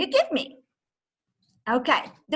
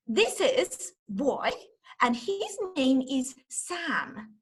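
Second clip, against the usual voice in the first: put-on storytelling to children; slower than usual. Shown as a demonstration. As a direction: tell it gently to little kids, slowly. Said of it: "Say hello to Sam".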